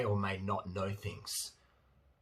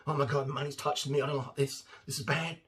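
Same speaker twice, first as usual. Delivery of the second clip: higher, whiny pretend dread; mock panic; 4 semitones higher than usual. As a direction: play a mock-horrified worker recoiling from cash. Mock stripper afraid of money.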